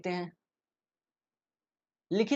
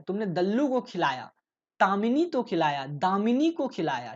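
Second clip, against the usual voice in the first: put-on pleading child; 3 semitones higher, 4 dB louder than usual. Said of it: "reads child's pleading line".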